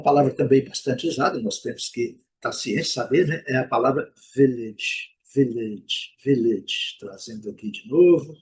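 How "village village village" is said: village said VIL-itch, no final vowel; final E silent. Shown as a demonstration. Teacher drills a common word, final E silent. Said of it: "letra E não pronunciada".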